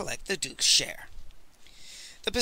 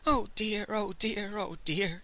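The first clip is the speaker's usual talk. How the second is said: wailing; 4 semitones higher, 5 dB quieter, slower than usual. A narrator's reading. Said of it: "he wailed".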